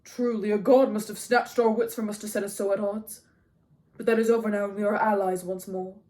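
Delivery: loud, declamatory public speech; loud proclamation. A narrator's reading. Agamemnon making peace before the watching men, loud. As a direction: announce it for everyone to hear. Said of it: "This last is said loudly".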